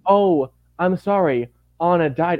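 a hint of the villain's false condolence; mock villain sympathy. The villain telling the queen her sister died, fake sorrow.

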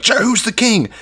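high-pitched herald's announcement; mock proclamation. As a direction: proclaim it like a cheering crowd, playfully. Acting troops proclaiming the new king.

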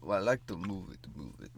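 lightly voiced King Julian singing line; a hint of a cartoon lemur king; King Julian impression. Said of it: "that sounds way more black guy".

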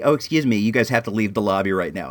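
low, offhand mimicry of the clerk; lightly voiced bored employee; nonchalant clerk imitation. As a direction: brush it off casually. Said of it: "so nonchalantly saying to me".

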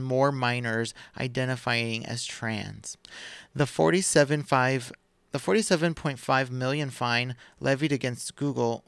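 measured, deliberate article reading; podcast host reading the headlines; news article read-aloud. Acted.

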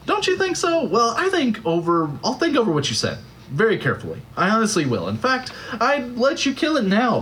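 high, rushed, frantic excuses; flustered ghost. A narrator's reading. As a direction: scramble for any way out.

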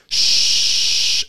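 whispered shush; librarian shushing whisper. Retold or imitated. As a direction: hush the room with a breathy shh. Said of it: "starts shushing everyone".

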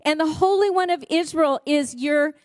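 a preacher declaring scripture to the congregation; scripture reading. Real, not acted. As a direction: proclaim the promise to the widow. Reading Isaiah aloud.

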